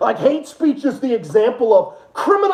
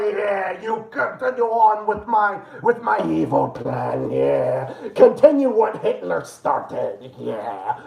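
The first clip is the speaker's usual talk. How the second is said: villainous Germany; slower than usual. Retold or imitated. Germany voiced, evil plan.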